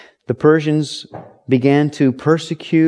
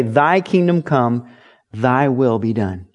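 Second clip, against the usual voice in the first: prayer recital; 2 semitones lower, slower than usual. Shown as a demonstration. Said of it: "Jesus taught the disciples to pray".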